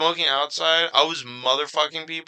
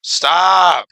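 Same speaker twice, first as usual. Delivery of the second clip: curt cut-off; 3 semitones higher, 6 dB louder than usual. Retold or imitated. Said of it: "I would just cut her off and be like".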